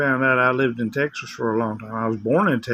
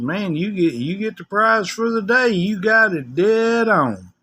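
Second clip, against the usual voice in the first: impressed congratulation; 6 semitones higher than usual. Retold or imitated. Retold congratulation to a caller.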